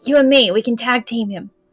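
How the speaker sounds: loud, theatrical stage whisper. In a role-play game, a player leans over to another character: stage whisper. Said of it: "just like stage whisper".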